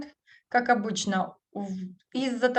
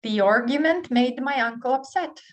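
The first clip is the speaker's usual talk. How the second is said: higher and louder, punching "argument"; lively model read; 4 semitones higher, 4 dB louder than usual. Shown as a demonstration. Teacher reading the last drill sentence with energy. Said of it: "the last one".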